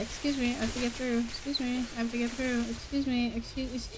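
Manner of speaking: mildly hushed, polite excuse-me's; polite murmur. Pretend. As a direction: squeeze past quietly and politely. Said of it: "I always have to say".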